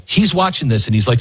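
normal talking voice

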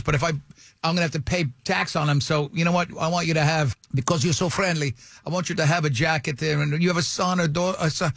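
lightly imitated Italian-accented English. Italian dealer offering his new friend a jacket, light Italian accent. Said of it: "that is the accent he used".

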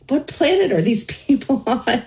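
retold bafflement with a laugh in it; incredulous. Teen patient thinking the therapists are crazy, amused incredulity. Retelling her disbelieving reaction.

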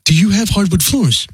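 canned sales pitch, same every time; robot voice. Acted. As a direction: recite it like a recorded robot. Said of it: "talking like a robot".

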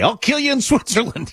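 high-pitched mock threat breaking into laughter. Co-host quoting a threat made to negotiators, laughing mock threat. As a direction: imitate a threat, too amused to mean it. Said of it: "threatening the negotiators".

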